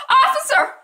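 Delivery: high, loud, laughing cry for help; laughing mock plea. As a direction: ham up a damsel's call. Eva mockingly calls a passing cop.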